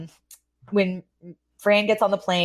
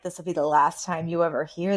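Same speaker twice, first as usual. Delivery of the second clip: ominous; 3 semitones lower, 5 dB quieter than usual. Retold or imitated. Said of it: "That almost sounded again like".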